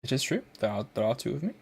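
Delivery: put-on British accent. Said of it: "turn off this accent".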